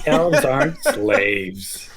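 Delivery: slow, laughing protest. Real, not acted. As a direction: laugh through the denial. Denying with a laugh.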